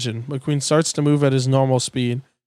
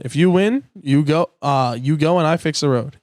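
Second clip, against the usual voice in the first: Doc voice. Acted. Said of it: "Doc Hudson".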